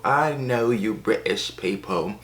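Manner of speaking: slow, put-on British accent; exaggerated stereotypical British voice; mock British accent. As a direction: stretch it out in a hammed-up British accent. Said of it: "Americans can't do British accents".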